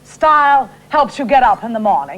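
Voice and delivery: a hint of Diana Vreeland's grand New York manner; Diana Vreeland impression. Shown as a demonstration. Actress asked by the host to do her Diana Vreeland. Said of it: "That's Diana Vreeland".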